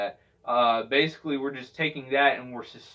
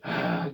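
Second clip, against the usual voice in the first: fed-up sigh. Shown as a demonstration. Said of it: "done with the world side".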